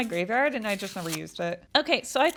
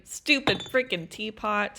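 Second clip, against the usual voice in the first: mock anger; slower than usual. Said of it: "now I'm getting angry".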